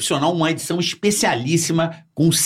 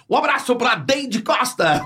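high, slow retold quote; lightly voiced friend's greeting; imitating Ulisses; 7 semitones higher, slower than usual.

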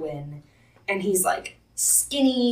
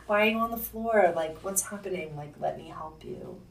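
softly coaxing, trailing down quieter; mildly tender, hushed by the end; retold gentle concern; 6 dB quieter than usual. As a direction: gently offer help, imitating a kind helper. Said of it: "so gentle with him".

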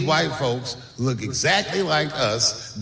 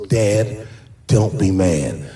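nervous son; 8 semitones lower, 5 dB louder, much slower than usual. Retold or imitated. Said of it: "He goes".

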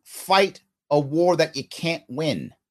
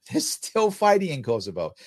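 laughing; 4 semitones lower than usual. Real, not acted.

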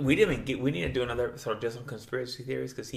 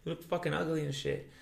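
higher-pitched mock indignation; retold scornful refusal; 5 semitones higher than usual. Client turning down the girl to her face, scornful. Man rejecting her in acted quarrel.

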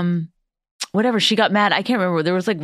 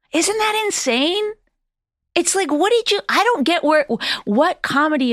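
incredulous; 12 semitones higher than usual. Real, not acted. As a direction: ask it in disbelief. Outraged at heckler.

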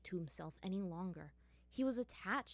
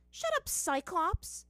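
much higher, louder, slow furious outburst; angry snap; 11 semitones higher, 8 dB louder, slower than usual. Acted. Azula yelling an insult at Sokka, furious. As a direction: spit the insult at him. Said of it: "Azula shot at him".

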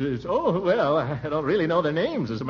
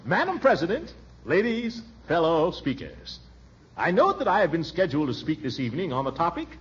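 formal speech reading; 3 semitones higher than usual. Acted. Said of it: "I say".

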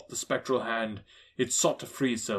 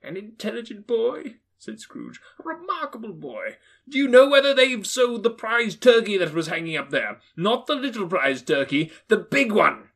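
higher, cheery call; Scrooge calling the boy; 9 semitones higher, 7 dB louder than usual. Acted. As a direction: hail him kindly.

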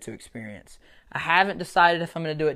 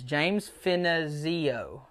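mock Italian accent; 4 dB quieter, much slower than usual. Shown as a demonstration. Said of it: "I had to say it like an Italian".

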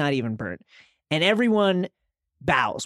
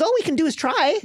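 weak Jorah; 11 semitones higher, 3 dB louder, faster than usual. Retold or imitated. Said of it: "very weakly here says".

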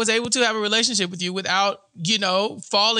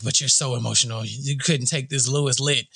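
mock Lewis accusing; 8 semitones lower than usual. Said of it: "And he's like".

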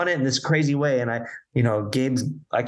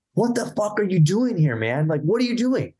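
higher-pitched mock outrage; retold confrontation; 7 semitones higher than usual. Producer bursting in on the band, retold exasperated demand.

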